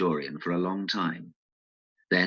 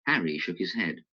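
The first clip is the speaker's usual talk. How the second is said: ordinary delivery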